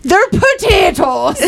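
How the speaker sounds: high, slow stage-Irish drawl; mock Irish accent. Topping the Irish bit, exaggerated mock Irish accent. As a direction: drag it out in a daft Irish brogue.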